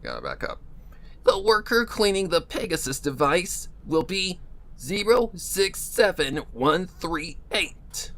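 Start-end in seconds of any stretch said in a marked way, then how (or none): 1.2-8.1 robotic announcer voice. Acted. Factory intercom announces worker number.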